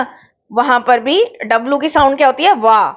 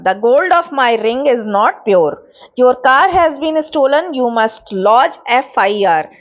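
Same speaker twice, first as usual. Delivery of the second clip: very slow, word-by-word reading of example sentences; slow dictation reading; much slower than usual. Acted. Teacher dictating sentences to the class, very slow. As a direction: spell it out slowly so students can write it down.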